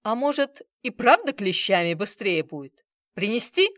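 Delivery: mock cheerful offer, loud. Bazarov taunting the manager with pliers, mock cheer. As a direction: pretend delight at the idea. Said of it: "радостно сказал".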